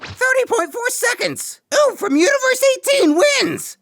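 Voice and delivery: very high, excited ring announcer; match announcer. Acted. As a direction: proclaim the winner to the whole crowd. Announcer declares the match winner.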